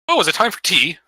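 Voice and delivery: high-pitched, eccentric giant voice; Zephyros. Acted. Game master voices cloud giant offering tea, high eccentric voice. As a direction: chirp it as a dotty old host. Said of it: "Zephyros kinda peeks his head out".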